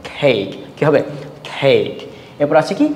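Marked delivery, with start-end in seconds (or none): 0.1-0.5 "কেক" lower, with the middle vowel held long. Shown as a demonstration. Teacher demonstrates silent e for students, long vowel in "কেক". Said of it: "লম্বা হবে". 1.5-1.9 "কেক" lower, its vowel drawn out; long vowel. Shown as a demonstration. Teacher repeats the silent-e example, long-vowelled "কেক". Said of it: "লম্বা হবে".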